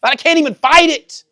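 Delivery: high, loud protest hurled at God; impassioned, high-pitched reenacted yell; retold screaming. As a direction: re-enact crying out in protest at full voice. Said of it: "screaming and saying".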